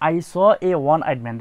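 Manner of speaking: slow, loud model sentence; careful classroom read of the example. Shown as a demonstration. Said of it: "দেখো, এখানে".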